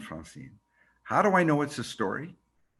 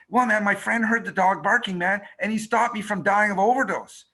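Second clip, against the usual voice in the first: street guy; 5 semitones higher, 3 dB louder than usual. Retold or imitated. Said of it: "And he goes".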